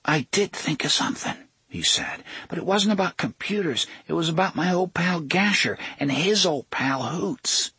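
put-on a kid stirring up trouble. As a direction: Jake needling Gasher in front of Tick-Tock. Jake baiting Gasher.

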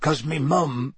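slow, gruff half-giant voice; big rough West Country giant; lightly voiced gruff Hagrid.

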